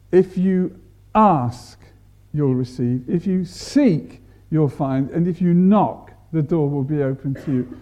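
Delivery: measured conditional emphasis; stress on if. Shown as a demonstration. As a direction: lean on "If you ask", "If you seek", "if you knock". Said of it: "That's where the emphasis is".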